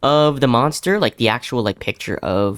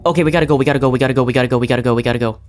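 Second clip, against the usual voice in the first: urgent, louder repeated gotta go; panicked hurry; 3 dB louder, much faster than usual. Real, not acted. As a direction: panic while running away. Fleeing the monster.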